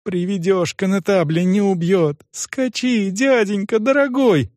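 put-on high girlish plea; urgent appeal to a reluctant man; imploring. A narrator's reading. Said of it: "умоляла девочка".

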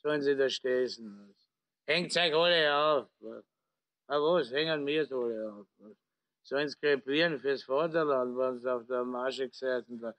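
put-on slurring drunk officer; town drunk. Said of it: "liegt betrunken im Coupé lallend".

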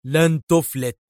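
rising yell of a threat. A narrator's reading. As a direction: call the threat after the fleeing car. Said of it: "ودار يصرخ".

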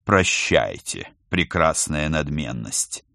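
low, slow mock-sad goodbye; sad farewell. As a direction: sigh it out theatrically. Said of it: "печально произнёс".

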